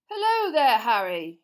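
high, loud hearty minister; jovial official, a bit too cheery; Fudge voice. Acted. Minister greeting the boy, overly hearty.

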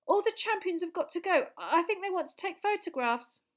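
put-on high, excited boy's voice; a keen boy rushing the news out; eager young boy. Boy pressing the teacher to release Harry, high and eager. Colin keeps pleading.

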